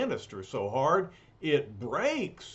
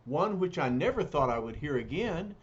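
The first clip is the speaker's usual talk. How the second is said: put-on gentle young woman voice. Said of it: "She says".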